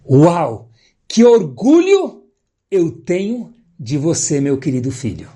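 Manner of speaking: a father moved to tears by his son; proud father. Acted. Father moved by son's effort.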